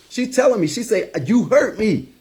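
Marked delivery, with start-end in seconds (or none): 1.3-2.1 much higher, strained pleading of a crying mom; retold bawling mother. Son retelling his weeping mother's words on the phone, high and tearful. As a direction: voice his mother pouring out her hurt through tears. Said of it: "she's bawling, but she's speaking her truth".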